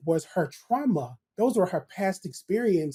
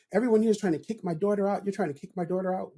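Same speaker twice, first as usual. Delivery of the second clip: mildly angry retold complaint, quicker; retold angry parent; 3 semitones higher, faster than usual. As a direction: voice an upset mother's fast protest, lightly. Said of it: "she was angry".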